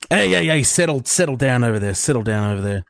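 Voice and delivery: sudden loud call across the room; yelling to settle down. Real, not acted. Host yells at someone off-mic.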